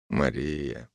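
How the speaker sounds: low, soft whispered name. A narrator's reading. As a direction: breathe her name against her temple. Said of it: "прошептал майор".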